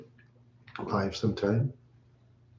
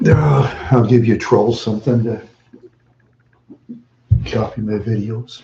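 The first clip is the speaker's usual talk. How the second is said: loud retort; 10 dB louder than usual. Real, not acted. Calling out trolls.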